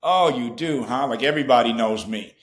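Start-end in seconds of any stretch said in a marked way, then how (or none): 0.0-1.1 cocky, knowing "oh, you do, huh"; smug little quip. Retold or imitated. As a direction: act like everybody knows you. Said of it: "It comes across like".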